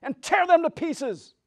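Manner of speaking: high, loud witch's command. Acted. Witch ordering her wolves, high and loud. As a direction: bark orders like a wicked witch. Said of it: "said the witch".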